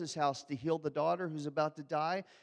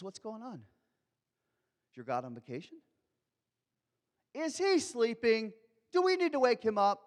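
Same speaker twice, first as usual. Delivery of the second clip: sarcastic jeer, ending higher, louder and faster; mocking taunt; 4 semitones higher, 4 dB louder than usual. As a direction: needle them about their sleeping god. Elijah taunting Baal's prophets.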